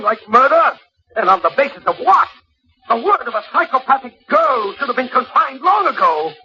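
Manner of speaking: climbing, heated outburst; rising rant. Acted. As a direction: pour contempt on the accusation. Husband rants at accusing wife.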